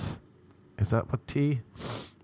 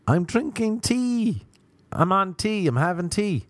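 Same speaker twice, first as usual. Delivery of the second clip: mock innocent reply; 9 semitones higher than usual. Deadpan answer to radio hosts.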